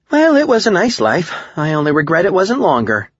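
very high, loud, thin farewell; high-pitched lament. A narrator's reading. Facing obliteration by an alien, high-pitched lament. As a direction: pitch it way up as last words.

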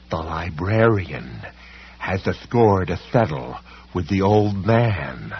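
slow menacing villain. Acted. Policeman speaks slowly.

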